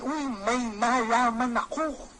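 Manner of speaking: slow, teasing "Uy, may nalaman ako"; a lightly teased hint of a secret. Shown as a demonstration. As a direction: dangle it like juicy news. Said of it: "pwede mong sabihin".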